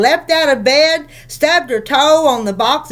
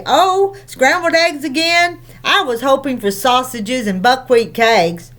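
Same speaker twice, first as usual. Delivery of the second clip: mild voice. Acted. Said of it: "He said mildly".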